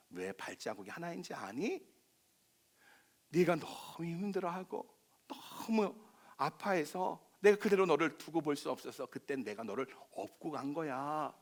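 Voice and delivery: gentle Jesus. Retold or imitated. Jesus explaining the single footprints to the dreamer, tender and soft. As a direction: comfort a broken friend quietly. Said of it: "그랬더니 주님이 그러시더래요".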